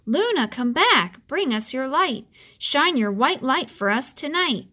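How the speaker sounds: the wind howling for the moon; roaring wind. Acted. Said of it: "whispering and then roaring".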